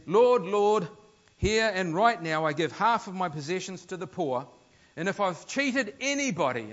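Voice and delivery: loud, earnest public declaration; proclaiming loudly. Retold or imitated. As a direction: stand up and announce it to the room. Zach's public pronouncement voiced.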